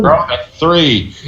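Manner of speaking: high, slow little vampire voice; small vampire. Pretend. Calling a bad dice roll, small vampire voice. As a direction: draw it out like a tiny mock vampire. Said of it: "sound like a small vampire".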